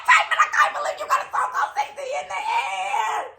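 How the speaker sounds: high laughing squeal; a delighted, scandalised fan shriek; shrieking fangirl. Retold or imitated. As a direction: squeal it half laughing, half crying. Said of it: "I was like".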